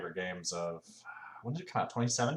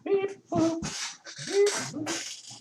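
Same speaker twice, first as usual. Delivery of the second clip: robot beep; 5 dB louder, much slower than usual. Pretend. Playful noises while fiddling controls.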